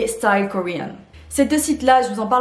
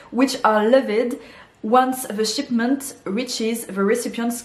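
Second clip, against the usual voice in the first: careful, slow English with French accent. Real, not acted. Vlogger reads customs notice to viewers, French-accented English. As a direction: read English slowly, keeping your French accent. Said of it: "mon superbe accent anglais".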